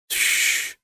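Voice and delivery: sharp unvoiced hiss; hissed shush. A narrator's reading. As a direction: hush him urgently. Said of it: "Key hissed".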